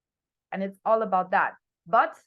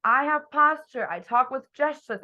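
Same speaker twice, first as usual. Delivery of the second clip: louder, higher, slower and confident; bold and loud; 5 semitones higher, 5 dB louder than usual. Shown as a demonstration. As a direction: project it with full conviction. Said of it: "You are talking bold and loud".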